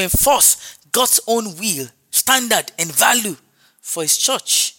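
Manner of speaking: measured pulpit declaration, each phrase punched; insistent preacher; emphatic preaching. Real, not acted. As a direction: lay down doctrine firmly to the congregation.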